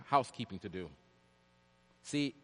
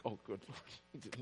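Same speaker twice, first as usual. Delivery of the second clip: slow, much softer, far-off groan of dismay; dismayed murmur; 4 semitones lower, 13 dB quieter, much slower than usual. Retold or imitated. Preacher recalling his dismay at the guy, slow soft groan. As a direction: sink at the bad news.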